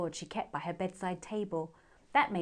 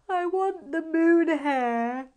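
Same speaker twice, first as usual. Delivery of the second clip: put-on sleepy child; 9 semitones higher, 7 dB louder, much slower than usual. A narrator's reading. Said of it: "with a yawn".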